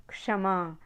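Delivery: क्षमा said as "kshamaa"; full "ksh" at the start of क्षमा; correct क्ष sound. Shown as a demonstration. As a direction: open क्षमा on a clear k plus sh. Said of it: "कक्षा ऐसे होता है".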